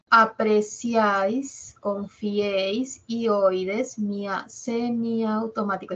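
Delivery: Apreciáis, confiéis drawn out slowly; teacher listing triptongo examples slowly; slow example reading. Shown as a demonstration. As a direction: read the examples deliberately. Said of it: "Dice, es la asociación de tres".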